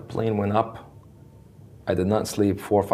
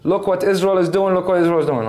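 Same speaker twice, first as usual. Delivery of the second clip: much higher and louder, a gushing mock cry; mocking Arab onlookers; 9 semitones higher, 4 dB louder, slower than usual. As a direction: parody the crowd marvelling at Israel, slowly at first. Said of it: "All the ערים".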